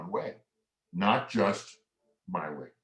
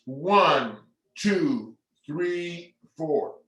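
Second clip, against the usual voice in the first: counting aloud; 5 semitones higher, much slower than usual. Shown as a demonstration. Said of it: "Here we go".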